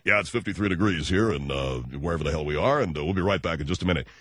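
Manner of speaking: forced-low DJ weather patter. Retold or imitated. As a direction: push the pitch right down, mock DJ. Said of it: "they would try to lower their voice".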